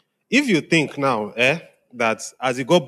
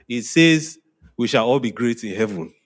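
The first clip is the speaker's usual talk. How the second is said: mock confidence. Shown as a demonstration. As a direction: confidently assert a nonsense answer. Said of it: "give a nonsense answer with confidence".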